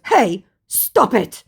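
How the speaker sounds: high, slow, loud objection; hammed-up petulant plea to stop; mock whiny protest. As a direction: drag it out like a pestered child. Scammer's protest, acted out.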